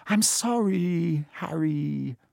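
slow, drawn-out mild wail. A narrator's reading. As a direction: stretch out the apology in distress. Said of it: "she wailed".

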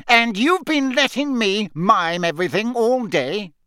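high-pitched, indignant outrage; outraged. A narrator's reading. Fudge who mimed all day, outraged. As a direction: protest in affronted disbelief, pitched high. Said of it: "sounding outraged".

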